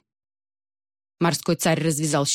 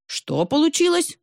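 re-asking; 11 semitones higher than usual. Acted. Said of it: "переспросил".

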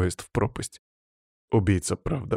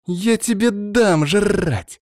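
angry retort; 10 semitones higher, much slower than usual. Acted. Girl snaps back at monster.

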